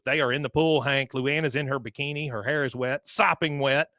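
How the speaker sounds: mock-scandalised; indignant. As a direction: report it as a scandal, punching the last phrase. Peggy's indignant complaint acted out.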